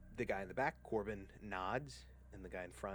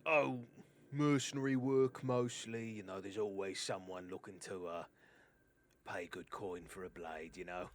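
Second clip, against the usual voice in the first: lightly voiced chatty sellsword; accented hired blade talking shop; rambling mercenary; 4 dB louder than usual. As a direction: open strong, then ease into a casual pitch.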